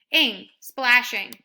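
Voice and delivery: ing and splashing slow and loud; syllables stressed. Shown as a demonstration. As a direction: clap out each syllable. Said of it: "two-syllable word".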